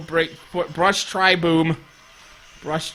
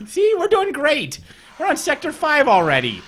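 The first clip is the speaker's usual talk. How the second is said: excited boast; 8 semitones higher than usual. Real, not acted. Player boasting to teammates about their progress, excited. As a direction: crow about it in a raised pitch.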